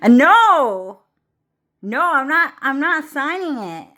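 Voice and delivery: high-pitched mock refusal; Donald Trump. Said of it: "Donald Trump was like".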